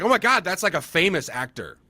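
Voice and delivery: high, excited double take; amazed realization. Retold or imitated. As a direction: realize who she is, starstruck. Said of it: "And then I realized".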